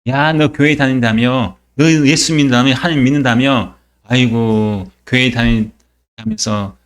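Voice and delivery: drawn-out taunt, imitating a scoffer; mocking. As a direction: needle the believer slowly, as a mock jeer. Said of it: "우리를 조롱하죠".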